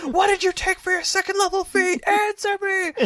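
hammed-up interrogator shouting questions. Mock interrogation of a player.

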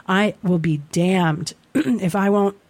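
throat catching, thick voice; words snagging on a frog in the throat. Real, not acted. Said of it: "a frog in my throat".

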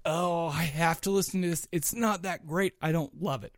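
soft, bored grumble; unimpressed. Retold or imitated. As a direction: say it like a dull chore. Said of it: "Or it's like".

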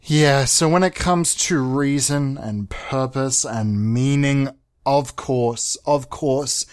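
a hammed-up serious voice. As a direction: play it grave and slow, like a pompous director. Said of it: "let me put on my serious voice".

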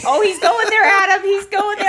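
hammed-up panic; mock nervous dread. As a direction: dread what he'll say next. Wife panicking on Zoom call.

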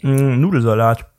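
talking with food in mouth; chewing while talking. Real, not acted. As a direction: speak through a mouthful of pasta salad. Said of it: "Ich esse grad noch ein bisschen nebenbei".

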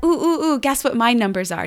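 put-on high, bouncy ooh-ooh of an excited child; eager little girl. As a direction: imitate a kid who can't wait her turn. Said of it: "little Amelia ... is like".

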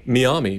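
Miami said mee-AH-mee; alternative local pronunciation. Shown as a demonstration. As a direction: open Miami with mee, broad ah in the middle. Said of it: "how old in Florida you are".

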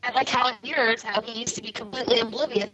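garbled mic sound; wonky audio. Real, not acted. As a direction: voice through a bad connection. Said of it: "your audio's gone kinda wonky".

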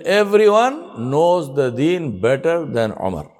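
slow, humble self-reproach; humble self-talk. Retold or imitated. Umar telling himself how humble he is, slowly. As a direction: draw it out as if talking to yourself. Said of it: "He's telling himself".

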